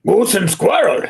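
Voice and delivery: put-on Russian-accented echo; cartoon Russian villain. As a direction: play along as a cartoon spy. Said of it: "doing my Boris Bedinov".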